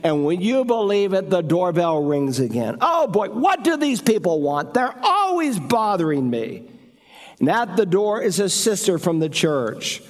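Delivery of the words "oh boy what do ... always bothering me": higher, mock exasperation at the second ring; exasperated homeowner. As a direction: groan it like someone disturbed again.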